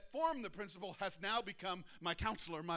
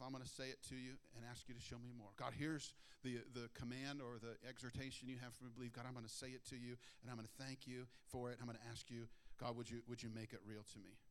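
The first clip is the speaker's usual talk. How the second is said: quiet prayer; 4 semitones lower, 7 dB quieter, faster than usual. Shown as a demonstration. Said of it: "We can simply say".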